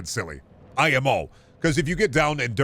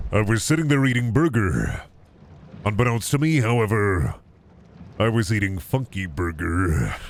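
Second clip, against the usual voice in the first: narrator voice. Shown as a demonstration. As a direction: tell it like a movie trailer narrator. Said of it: "full narrator voice for that".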